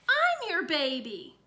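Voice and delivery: put-on little boy jealously insisting to mom; jealous insistence.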